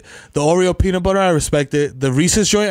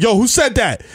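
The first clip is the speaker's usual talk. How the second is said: raised-pitch demand, imitating a teacher; mock indignant teacher; 6 semitones higher than usual. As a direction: act the teacher caught off guard.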